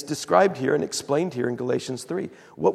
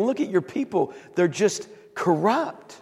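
mad prophet; 4 semitones higher than usual. Retold or imitated. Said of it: "and he's mad".

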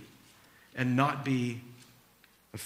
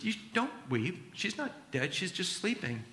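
gentle softer retelling; 3 semitones higher, 6 dB quieter than usual. Retold or imitated. Jesus gently tells the weeping crowd she sleeps, softly. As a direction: say it softly, like calming a grieving crowd.

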